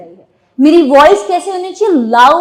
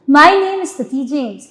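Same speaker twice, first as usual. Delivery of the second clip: smiling; much slower than usual. Shown as a demonstration. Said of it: "ये स्माइल है".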